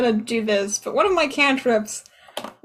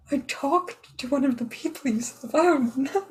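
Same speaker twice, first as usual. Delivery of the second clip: cursing under breath; 5 dB quieter than usual. Acted. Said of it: "I mutter under my breath".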